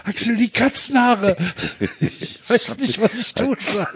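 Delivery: clickbait video narrator. Pretend. S1 parodies the YouTuber voice.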